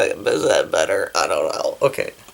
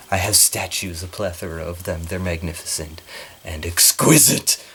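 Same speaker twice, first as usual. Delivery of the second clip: a lightly voiced Equius, lower and softer; in character as Equius; 4 semitones lower, 4 dB quieter than usual. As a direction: slip into the character, a touch lower and hushed. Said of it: "now that I'm in character".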